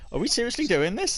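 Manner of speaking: incredulous. Retold or imitated. Disbelief while racing with friend.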